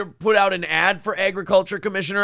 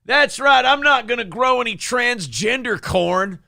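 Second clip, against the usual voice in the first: mock campaign ad. Parody of candidate after the clip.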